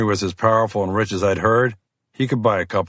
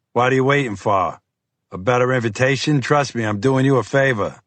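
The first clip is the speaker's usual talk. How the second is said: gruff FBI agent; 3 semitones higher than usual. Acted. Fiore voiced by narrator.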